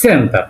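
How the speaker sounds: "সেন্টার" as Russian-style "ssen-ta", dental t; Russian pronunciation. Shown as a demonstration. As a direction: say "সেন্টার" with a hissed start and no final r. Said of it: "Russian ভাষায় বলবে".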